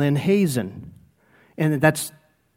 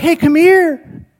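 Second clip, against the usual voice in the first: slow, loud, high call of Hey, come here; calling over; 11 semitones higher, 5 dB louder, much slower than usual. Retold or imitated. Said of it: "So I'm down there like".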